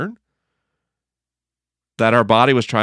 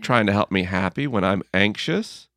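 kind words to body. Retold or imitated. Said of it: "what I've learned to do is go".

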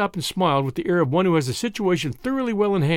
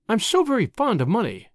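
higher, sweet confession; sweetly; 5 semitones higher than usual. A narrator's reading. Tuppence explaining herself to Whittington, still sweetly. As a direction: say it sweetly, innocently. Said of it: "still sweetly".

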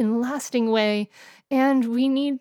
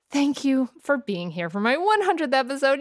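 holding back happy tears; teary; 4 semitones higher than usual. Real, not acted. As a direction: voice catching with emotion. Emotional thanks for 100th episode.

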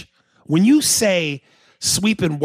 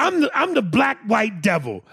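laughing shout; 6 semitones higher than usual. Real, not acted. Laughing protest at co-host.

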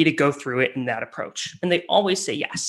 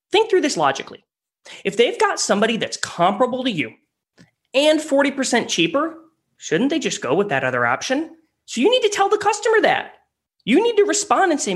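much higher, insistent coaching; emphatic; 8 semitones higher than usual. Real, not acted. Sales coach stressing logic to the listeners. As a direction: drive the point home.

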